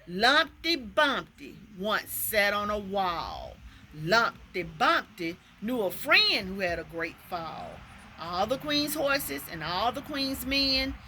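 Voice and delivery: measured nursery-rhyme verse; poem recitation. Acted. Teacher sharing a second made-up poem, rhythmic recitation. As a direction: recite it in rhythm, leaning on each beat.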